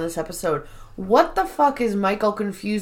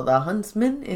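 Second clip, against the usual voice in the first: mock French accent; 4 dB quieter than usual. Mimicking the concierge recommending a bar, French accent. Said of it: "I love her accent".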